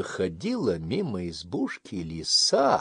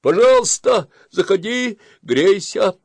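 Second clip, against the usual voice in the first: high, loud friendly hare voice; kind hare; 11 semitones higher, 11 dB louder than usual. Acted. Hare invites the fox in, high and loud. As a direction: welcome the guest brightly. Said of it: "говорит заяц".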